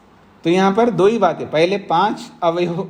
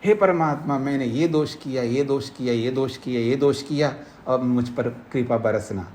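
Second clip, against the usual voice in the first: mock confessing prayer; 3 semitones lower, 4 dB quieter than usual. Preacher imagines a devotee confessing every fault to God, soft humble prayer. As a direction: list the faults quietly, then beg for grace. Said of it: "ऐसे तो बोल नहीं सकता वो भक्त".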